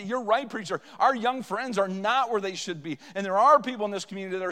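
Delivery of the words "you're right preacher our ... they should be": excited agreement. Retold or imitated. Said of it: "would get excited and say".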